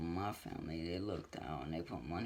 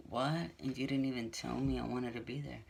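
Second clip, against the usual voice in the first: high, loud, upset surprise from the retold mom; imitating mom's indignant shock; shocked what; 4 semitones higher, 3 dB louder than usual. Mom learning on the phone that her son was sentenced, shocked and indignant.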